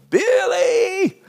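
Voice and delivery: high loud call across the farm. Retold or imitated. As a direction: yell a name from the fence. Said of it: "she would go".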